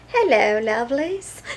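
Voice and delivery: hello lovelies broken up by real laughter; laughing greeting. Real, not acted. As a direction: giggle through the greeting. Repeats greeting, laughing at herself.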